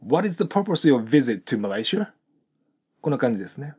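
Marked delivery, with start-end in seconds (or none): 0.1-2.1 "What is the purpose of your visit to Malaysia?" read with every word linked; linked-up model sentence. Shown as a demonstration. Teacher models the question for students, all linked. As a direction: run "purpose of your" together, rising at the end. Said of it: "もう一度通して発音すると".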